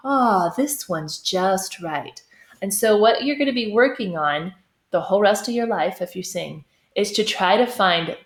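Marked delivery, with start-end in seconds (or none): 0.1-2.2 satisfied. Retold or imitated. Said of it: "You might be".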